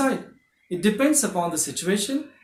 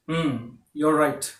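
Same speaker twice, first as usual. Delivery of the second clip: agreeing; 3 semitones lower, slower than usual. Shown as a demonstration. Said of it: "show agreement".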